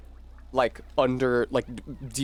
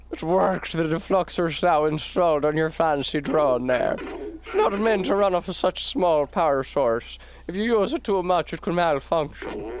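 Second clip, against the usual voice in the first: put-on Irish accent; 4 semitones higher than usual. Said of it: "I gave him an Irish accent".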